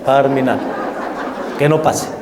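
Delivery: laughing through the words; laughing repeat. Real, not acted. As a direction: repeat it while chuckling. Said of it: "laugh heard on repeat".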